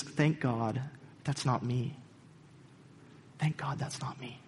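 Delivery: soft, smug murmur of relief; smug whispered thought. Retold or imitated. Woman thanking God she's not like others, softly smug. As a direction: hush it, pleased with herself. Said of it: "she thinks".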